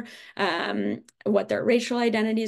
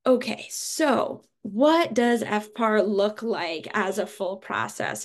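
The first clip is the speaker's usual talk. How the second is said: alarm sounding in the background; alarm beeping behind. Real, not acted. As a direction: speak over a beeping alarm. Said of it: "alarm going off".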